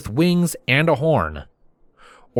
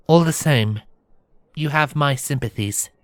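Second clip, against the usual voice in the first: sympathetic princess, pitched higher; reassuring; 5 semitones higher than usual. Acted. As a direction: offer sympathy in a gentle princess voice. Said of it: "she assured me".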